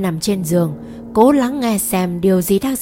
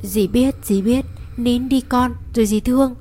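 soothing through sobs; 4 semitones higher than usual. Acted. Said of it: "trong tiếng nấc lên".

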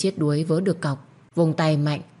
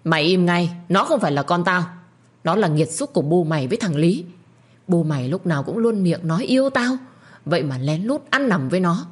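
snapping anger. Acted. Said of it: "Ông gắt gỏng".

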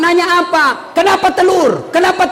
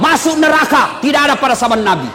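ranting mock preacher. Preacher mocking hardliners, shouting masuk neraka. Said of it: "Langsung nak kasih kafir semua orang".

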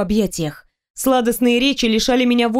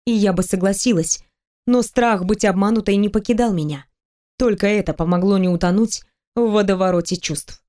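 ordinary delivery, nothing marked

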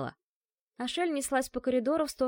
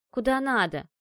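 резко и громче; огрызнись коротко; огрызнулась; 3 semitones higher, 5 dB louder than usual. Acted. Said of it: "огрызнулась изобретательница". (девушка огрызается на кошку)

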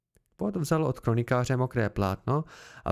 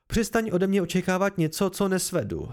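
exasperated outburst; 5 semitones higher than usual. Acted. Kvote's outburst at Bast.

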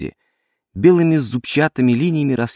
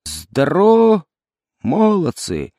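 high, slow, thin shouted greeting; thin womanish shout; 4 semitones higher, slower than usual. Acted. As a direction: squeak it out like a fat commander trying to bark. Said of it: "крикнул тонким бабьим голосом".

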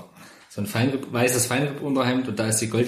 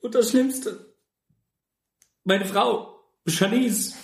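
high, wailing mock despair; high mock-tragic voice; 10 semitones higher, much slower than usual. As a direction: ham up the heartbreak, pitched high. (hohe, gespielt verzweifelte Stimme)

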